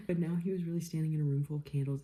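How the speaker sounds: reading through laughter, quick; laughing. Real, not acted. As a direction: giggle through the line. Rereading while laughing.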